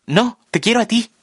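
very high, urgent cry; shout. A narrator's reading. Marla shouts her love to the narrator, very high. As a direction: cry it out insistently. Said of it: "grita Marla".

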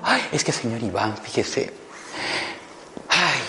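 anxious fretting. Retold or imitated. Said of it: "ya el hombre estaba doblándose en cuatro".

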